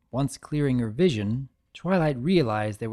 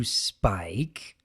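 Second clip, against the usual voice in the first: forced calm; 4 semitones lower, 4 dB quieter than usual. Acted. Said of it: "she replied in a calm demeanor".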